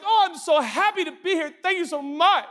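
put-on high sweet baby voice; a cheery grateful newborn; mock happy baby. Preacher imagining a newborn thankful to be here, high sweet voice. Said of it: "a baby born that's like".

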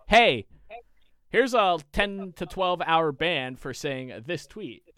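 lightly voiced Twitter, high and loud on "Hey"; slow mock announcement after a loud greeting; Twitter ban notice. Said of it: "they're like".

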